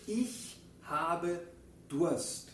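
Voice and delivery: Ich habe Durst pronunciado despacio y claro; modelo en alemán. Shown as a demonstration. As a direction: dilo como modelo para la clase. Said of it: "Que decimos". (pronunciación alemana de ejemplo)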